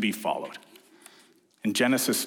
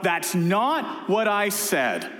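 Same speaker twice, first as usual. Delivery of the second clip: parent yelling; 6 semitones higher, much slower than usual. Retold or imitated. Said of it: "and you yell out".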